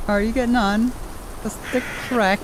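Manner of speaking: high-pitched, hammed-up Irish lilt; camped-up Irish accent. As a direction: put on a high, campy Irish voice. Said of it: "she's camping it up a bit".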